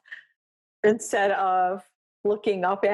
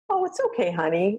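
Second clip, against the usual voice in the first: soothing a dog before eye drops; sweet talk to dog; faster than usual. Retold or imitated. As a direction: coo reassuringly at the dog.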